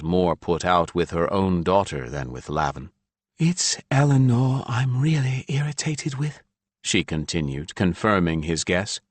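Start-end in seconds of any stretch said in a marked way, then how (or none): 3.4-6.4 higher mother's voice, openly irritated; higher woman's voice, annoyed; irritated Ilya. A narrator's reading. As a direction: let the irritation with the daughter show. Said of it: "more irritation in her voice now".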